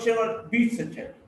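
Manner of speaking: quick run-up, then weight on "beats"; stress on BEATS. Shown as a demonstration. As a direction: contrast "beats" with scolding. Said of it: "Maybe she punishes her child".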